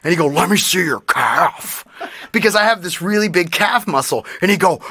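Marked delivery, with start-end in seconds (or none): 0.3-1.8 slow, creepy horror-villain voice; Tim. Retold or imitated. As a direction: draw it out like a movie psycho. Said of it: "Silence of the Lambs and Saw".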